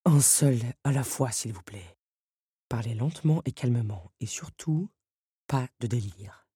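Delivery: calm Beast. A narrator's reading. Beast calming servants.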